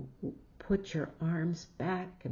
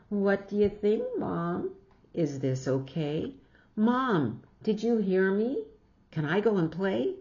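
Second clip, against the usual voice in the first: put-on higher, louder pestering child; pleading girl; 3 semitones higher, 4 dB louder than usual. Jillian asking Mom about the hat, eager and higher. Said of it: "Jillian calls her mother".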